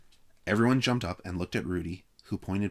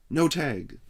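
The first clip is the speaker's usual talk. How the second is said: gulped; 8 semitones higher, 6 dB louder than usual. Acted. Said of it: "gulped Mike".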